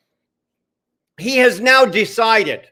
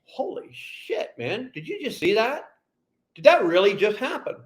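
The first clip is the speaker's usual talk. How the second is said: breathless whispered disbelief; stunned whisper; 7 dB quieter than usual. Retold or imitated. Stream viewers gasping to each other in a stunned whisper. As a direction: hush it like a shocked viewer. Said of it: "are now gonna sit there and go".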